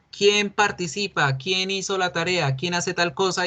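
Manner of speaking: mock teacher asking who did the homework; teacher asking class. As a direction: play the teacher firing questions. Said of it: "el profesor le decía".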